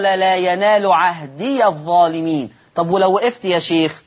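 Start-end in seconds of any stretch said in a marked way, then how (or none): 0.0-2.5 slow recited "لا ينال عهدي الظالمين" with ya of "عهدي" opened; Quran recitation. Shown as a demonstration. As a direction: recite slowly in tajweed style. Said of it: "قال". (تلاوة مرتلة بفتح ياء "عهدي")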